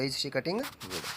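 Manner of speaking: very slow, word by word for the class; slow dictation. Shown as a demonstration. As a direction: say it slowly so students can write. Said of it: "लकड़ी को wood". (धीरे-धीरे वाक्य बोलना)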